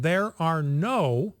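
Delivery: slow, rising stress on "no". Shown as a demonstration. Host rereading a scientist's quote, stressing "no". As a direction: lean hard on "no" and stretch it. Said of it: "and I emphasize the word no".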